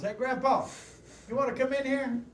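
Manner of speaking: put-on high-pitched child calling to Grandpa; imitated grandkid. Grandkid calling Grandpa in to the cartoon, high child voice. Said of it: "wondered if his grandkids were watching".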